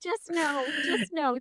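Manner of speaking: high, emphatic no, shutting it down; firm dismissal. Real, not acted. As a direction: reject the idea outright, pitch jumping up. Flat rejection of parenting myths.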